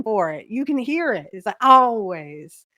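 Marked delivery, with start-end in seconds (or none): 1.6-2.7 put-on louder, stretched Minnesota-accent always; a fond Minnesota accent mimic. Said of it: "that's that Minnesota accent coming out".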